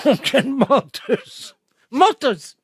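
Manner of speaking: loud, drawn-out scolding; loud, indignant reproach; loud accusation. Acted. Loud accusation in prank quarrel.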